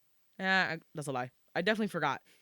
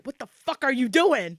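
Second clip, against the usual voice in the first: imagined scolding; 7 semitones higher, 11 dB louder than usual. Retold or imitated. Imagined friend scolding her.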